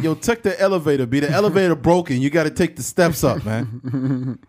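imitating a New York guy; New York accent. New Yorker sending someone up the steps, mock New York accent. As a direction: play a New Yorker griping. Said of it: "New York guys get pissed off when we do that".

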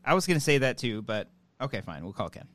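grudging agreement that sinks away; disappointed. Real, not acted. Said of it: "you sound so disappointed".

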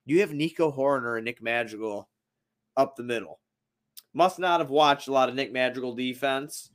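low, soft deadpan retort; retold unimpressed reaction. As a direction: answer the hype in a low, subdued voice. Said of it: "I'm just sitting there like".

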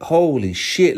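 high, startled exclamation; shocked. Retold or imitated. Grandma seeing him wrecked in the seat, high and shocked. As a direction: gasp it out in surprise. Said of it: "my son's grandma was like".

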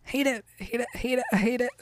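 quiet, repeated grumble of loathing; muttered disgust. Real, not acted. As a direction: mutter it under your breath in disgust. Disgusted reaction to the story.

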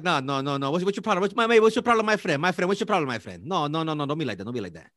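quick-talking Dominican impression; mock Dominican accent. Man playing Dominican for his friend, mock Dominican accent. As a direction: put on a rapid, protesting Dominican accent. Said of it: "I gotta talk quick".

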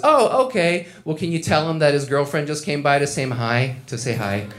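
high, sweet put-on girl voice; sweet girlfriend voice. Girlfriend dropping by work, high and chirpy.

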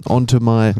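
hammed-up, stretched-out ending; in-character title reading. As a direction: act it out, dragging the final words. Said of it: "the tone you think they, they meant it".

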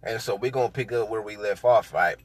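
talking while chewing gum. Real, not acted. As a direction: chew gum while you talk. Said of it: "Sorry, I'm chewing gum and shit".

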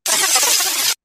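a short word in a German accent; hammed-up German accent. Shown as a demonstration. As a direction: clip it like a German speaker. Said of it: "my German accent".

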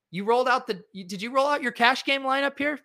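can't believe what you're seeing; incredulous. Real, not acted. Incredulous question about lineup choice.

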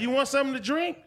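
high-pitched imitation of an offer; mock smooth offer. Man offering a woman someone else's bottle, mock sweet. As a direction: lift it high like a fake-sweet host.

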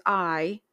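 "I" held out as the key word; stress on I. Shown as a demonstration. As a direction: put the emphasis on "I". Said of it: "you're emphasizing each word each time".

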